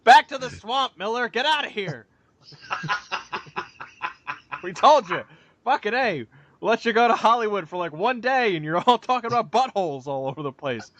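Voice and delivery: lightly voiced Scottish ogre scolding; mock scolding. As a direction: shoo him back to the swamp. Mock scolding Miller, Shrek voice.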